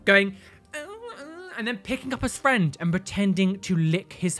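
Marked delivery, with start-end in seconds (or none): 0.7-1.5 mock camp voice. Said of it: "doing camp gay voice".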